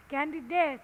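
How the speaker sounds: "Candidate" with its final t clearly released; clear final sound. Shown as a demonstration. Teacher showing students the word's ending, final sound clearly pronounced. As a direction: finish "Candidate" on a distinct t. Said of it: "phải phát âm rõ ràng".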